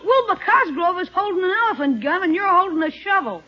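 teasing, breaking into laughter; laughing tease. Real, not acted. Nephew mocking uncle's shovel photo, laughing. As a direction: rib him and crack up at the punchline.

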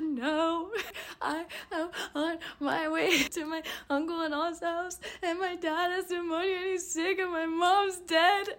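very high, hammed-up sobbing wail; mock weeping. Driver breaking down to the cop, mock weeping. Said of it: "I just started weeping".

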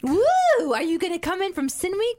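loud, high whoop into an eager question; thrilled and high-pitched; excited. Real, not acted. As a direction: burst out with real excitement. Thrilled the Irish listener may visit.

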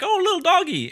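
put-on very high puppy-loving kid voice; cooing kids. Kids spotting a little dog, high coo. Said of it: "They were just like".

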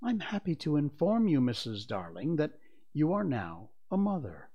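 lightly pompous announcement; mildly formal, proud proclamation; imitating father's tone. John playing father announces a birth, mildly pompous. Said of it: "in just such a tone as Mister Darling".

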